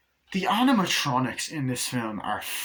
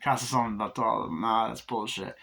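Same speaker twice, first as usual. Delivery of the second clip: mocking laugh.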